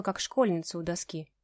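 ordinary delivery, nothing marked

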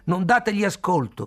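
high, loud desperate shout. A narrator's reading. Khalil to the grandmother, shouting high and loud. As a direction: cry out to stop them. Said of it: "gridò".

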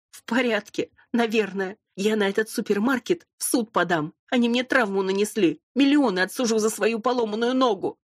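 high, whining complaining voice; whiny injured blonde. Acted. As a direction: whine about the broken leg. Injured blonde threatening to sue.

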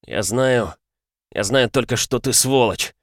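хрипло и зло, выше; выдавить сквозь боль. Acted. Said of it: "прохрипел Рэй". (хриплый злой голос)

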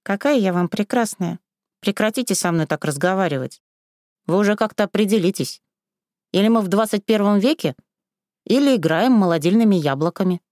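a touch indignant; mildly indignant girl. Acted. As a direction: protest being talked to so. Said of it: "возмутилась Василиса".

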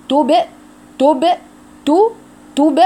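تب with a bouncing ب; echoing b. Shown as a demonstration. Teacher drills the qalqala for students, short bouncing syllables. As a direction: tap تب short with an echo on the ب. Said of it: "قلقلي الباء كويس".

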